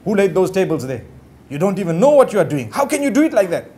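demonstrated rude scolding; blunt scolding. Shown as a demonstration. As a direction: demo how not to correct someone. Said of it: "that's not how you speak".

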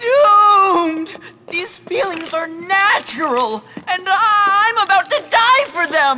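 눈물 섞인 과장된 절망; melodramatic despair. Acted.

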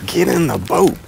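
loud, high cheer at the fish; hauling it in, thrilled; excited shout. Real, not acted. Angler landing a big crappie, shouting with joy.

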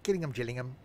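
Gillingham with a hard G, then Gillingham as Jillingham; "Gillingham, Gillingham" switching from G to J sound; hard G, then soft. Shown as a demonstration. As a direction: try Gillingham both ways, gill first, Jill second. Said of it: "Why do they call it Gillingham".

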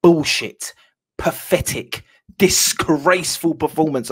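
loud, disgusted cry of "Bullshit"; angry outburst. Real, not acted. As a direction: spit it out like a furious fan. Furious fan ranting after defeat.

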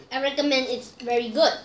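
quiet, strained by spicy heat; mouth burning from spicy food. Real, not acted. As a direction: speak through a burning mouth. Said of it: "I need some water".

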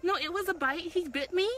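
high-pitched, insistent protest; real rattled indignation; upset protest. Real, not acted. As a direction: insist indignantly to the dog's owners. Disputing the bite with owners.

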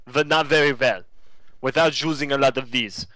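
lightly put-on Russian accent; rough Russian accent. Shown as a demonstration. Admitting your limits at accents, in a rough Russian accent. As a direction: attempt a not-very-good Russian accent. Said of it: "I can kind of do Russian accent".

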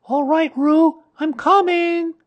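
put-on high, loud boy's shout; Christopher Robin. A narrator's reading. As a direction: call out to the rescue. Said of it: "called Christopher Robin".

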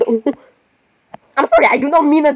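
slow sorry drawn out through laughter; apologizing mid-laugh; laughing apology. Real, not acted. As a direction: giggle the sorry out. Laughing apology after joke.

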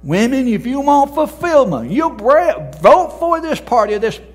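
high, loud hammed-up stump speech; preacher mocking a candidate's pitch; mock politician. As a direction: ham up a campaign pitch.

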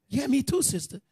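high mock commiseration; overemotional. Preacher mimics a newcomer commiserating, overemotional. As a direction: chime in with exaggerated feeling. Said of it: "you self come with the emotion".

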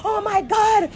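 mocking whine. Mimicking Erica's complaint.

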